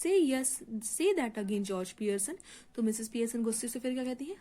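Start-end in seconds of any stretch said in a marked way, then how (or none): 0.0-2.4 savagely. Acted. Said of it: "stating up savirajly".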